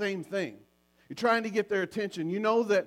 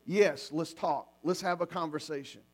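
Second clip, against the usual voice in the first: willing to talk; 3 semitones lower than usual. Shown as a demonstration. Spouse stops the chores to talk with their partner, unhurried and gentle. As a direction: set everything down and open up. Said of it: "and say".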